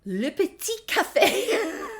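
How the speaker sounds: rushed and loud, ending on a high sing-song Le Petit Café; flustered goodbye into the phone; hurried hang-up. Retold or imitated. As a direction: hang up in a flustered hurry, tossing out the café name with a flourish. Hurried hang-up, fake French.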